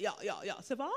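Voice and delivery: lightly mimicked low-pitched friend chatter; mock the friends' murmured small talk; imitating "yah yah" friends. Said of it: "that's how they talk".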